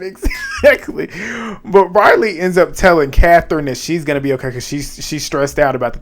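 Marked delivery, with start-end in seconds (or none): 0.0-1.1 drawn-out exactly. Real, not acted. Cheering Ava's threat.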